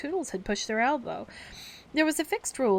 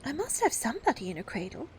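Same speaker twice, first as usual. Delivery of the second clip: tart; 5 semitones higher than usual. Acted. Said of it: "she said almost tartly".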